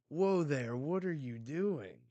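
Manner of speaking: high, loud mock alarm; flustered as she grabs him; startled protest. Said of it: "he's like".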